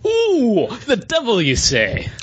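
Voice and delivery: high, hammed-up gasp of intrigue; mock shock. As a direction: play it like a melodrama aside. Mock reaction to comic summary.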